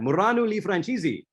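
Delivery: retold battle cry. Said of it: "and she cried".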